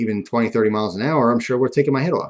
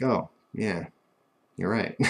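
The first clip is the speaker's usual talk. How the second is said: sheepish concession; 2 semitones lower, 7 dB quieter, slower than usual. Retold or imitated. Feeling stupid, conceding to grandfather.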